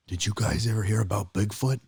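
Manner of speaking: lightly voiced uncle telling a tale; a hint of the storytelling uncle; uncle's voice. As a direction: put on your uncle's voice, lightly. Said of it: "I'm gonna do his voice".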